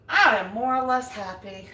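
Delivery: words breaking into a laugh. Real, not acted. Woman eating pasta on camera, laughing at herself. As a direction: chuckle at yourself.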